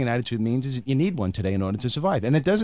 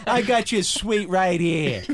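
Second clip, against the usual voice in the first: slow, laughing mock threat; hammed-up Brooklyn menace; Brooklyn tough guy; 4 semitones higher, much slower than usual. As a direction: growl it like a wiseguy. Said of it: "That's another thing".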